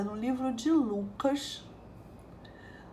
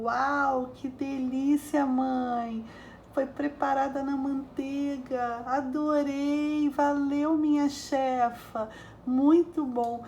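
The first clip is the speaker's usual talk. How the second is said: put-on delighted boy; 3 semitones higher, slower than usual. Boy thanking mom for the buttered carrots, delighted. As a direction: savor each word like a happy kid.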